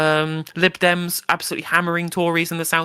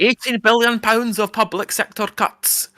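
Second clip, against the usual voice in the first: put-on Scottish accent; 5 semitones higher, slower than usual. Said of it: "I won't do a Scottish accent again".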